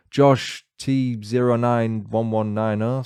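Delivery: slow, deliberate robotic villain reading of the username; mock cyborg villain, slow and measured; Terminator-style villain read. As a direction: spell out the code like a machine menacing its target. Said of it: "sound like a Terminator villain".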